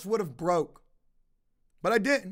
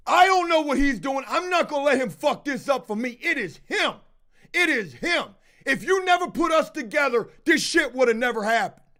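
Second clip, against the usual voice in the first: higher, agitated imitation of complaining; retold blaming protest; 3 semitones higher than usual. Accused man blaming the one asleep upstairs, agitated protest. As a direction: imitate someone pushing the blame away, voice raised in pitch. Acting out the man shifting blame.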